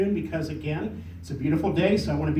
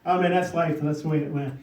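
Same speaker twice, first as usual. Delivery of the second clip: mild shrugging "oh man" delivery; offhand resignation. Shown as a demonstration. Speaker showing audience ways people say it, offhand resignation. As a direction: toss it off as if resigned. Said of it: "we don't even know what way we're saying it".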